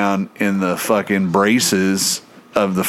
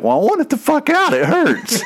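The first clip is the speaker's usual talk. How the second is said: fast, very high-pitched outburst; rushed comic squawk of complaint; mock pained demand. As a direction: imitate a hurting buddy's exasperated demand. Retold demand from hurting friend.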